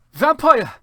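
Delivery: very high, loud furious shriek; angry shout. Acted. Ebony shrieking at Draco over the tattoo, hammed-up rage. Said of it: "I shouted at him".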